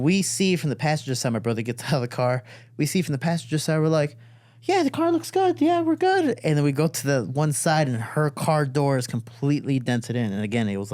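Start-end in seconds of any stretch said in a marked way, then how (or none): 4.6-6.4 very high, strained all-good voice; squeaky mock reassurance; false reassurance. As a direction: insist all is fine, unconvincingly. Retold false reassurance about damage.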